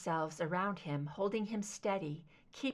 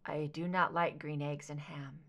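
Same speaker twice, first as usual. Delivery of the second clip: whispered under his breath, barely voiced; murmured; 5 semitones lower than usual. Mulder to Scully, recalling his sister's rhyme, in a whisper. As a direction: breathe the rhyme out almost silently. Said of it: "he murmured".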